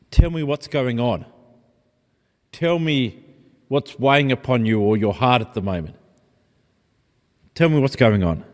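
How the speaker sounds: gentle, soft invitation to open up. Shown as a demonstration. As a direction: ask tenderly, like a caring friend. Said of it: "is much more softer".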